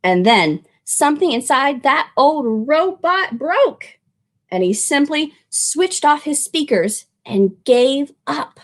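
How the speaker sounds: gentle read-aloud narration; storybook reading. A narrator's reading. Narrator reading a picture book to children, gently. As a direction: tell it like a bedtime story.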